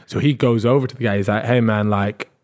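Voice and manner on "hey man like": respectful correction. Retold or imitated. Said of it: "Respectfully, just telling him".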